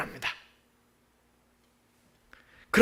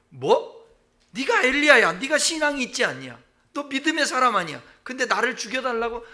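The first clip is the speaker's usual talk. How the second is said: a higher, mildly rebuking God; mildly incredulous God; 5 semitones higher than usual. Acted. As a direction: gently scold the prophet in disbelief. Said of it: "그렇게 해도 하나님이". (믿기지 않는다는 듯 꾸짖는 하나님)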